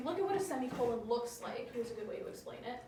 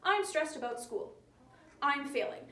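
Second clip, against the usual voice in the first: two separate sentences with a full stop between; stilted, over-punctuated delivery; choppy; 3 semitones higher, 3 dB louder than usual. Shown as a demonstration. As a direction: break it into stiff, choppy halves. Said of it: "People don't really talk like that. It's choppy".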